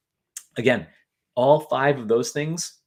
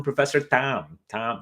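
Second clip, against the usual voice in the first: Tom with a flattened Boston vowel, like "Tam"; Boston accent attempt; slower than usual. Shown as a demonstration. Host joking to listeners about Professor Tom, attempted Boston accent. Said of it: "that's my Boston accent attempt".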